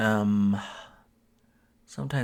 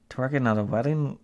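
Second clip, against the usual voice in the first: incredulous laugh; 3 semitones higher, 4 dB louder than usual. Real, not acted. Disbelief, repeating phrase.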